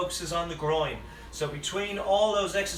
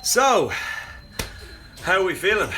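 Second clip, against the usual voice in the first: loud call; 5 dB louder than usual. Real, not acted. Loud restart after resting.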